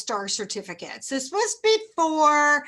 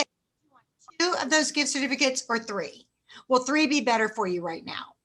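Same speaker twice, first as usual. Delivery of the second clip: easy, relaxed choice between two and three; right way to ask. Shown as a demonstration. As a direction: offer the options calmly. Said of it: "You say".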